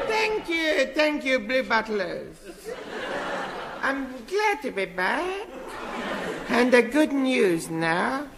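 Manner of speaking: put-on high, giddy little boy; squeaky kid character, gushing; childish high voice.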